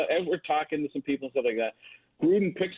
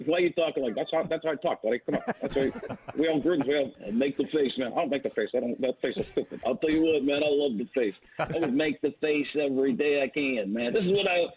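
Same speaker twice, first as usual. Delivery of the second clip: Jay Gruden impression. Shown as a demonstration. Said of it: "ask me to do my Jay Gruden".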